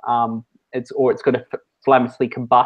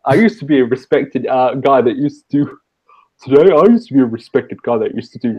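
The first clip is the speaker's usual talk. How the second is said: the speaker; 5 dB louder than usual. Shown as a demonstration. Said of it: "and here's the speaker".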